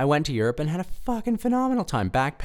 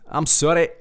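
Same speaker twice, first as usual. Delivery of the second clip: mock-Scottish apology; Scottish accent; 4 semitones higher, 5 dB louder than usual. Sorry for the bad accent, still doing mock Scottish. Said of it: "This is just your generic Scot".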